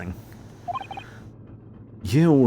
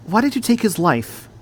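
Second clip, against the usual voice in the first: accusing; 7 semitones higher than usual. Acted. Accusing the killer.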